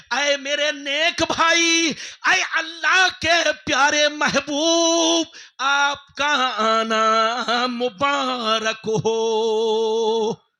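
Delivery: slow, loud and drawn out; very slow ringing blessing; solemn loud blessing. Acted. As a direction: bless him like a voice from heaven. Yusuf greets the Prophet.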